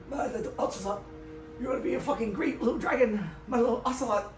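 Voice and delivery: a light put-on cooing voice for the dragon father; cooing to baby. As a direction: coo to the baby like a doting mad father. Dragon man cooing to invisible baby.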